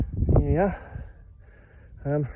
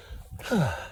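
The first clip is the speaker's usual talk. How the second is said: tired sigh; 2 semitones higher, 6 dB quieter than usual. Real, not acted. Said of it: "staggering up this path".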